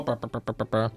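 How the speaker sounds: low stammering hen clucks; stuttering clucks. Acted. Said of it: "Вот и заикается ещё".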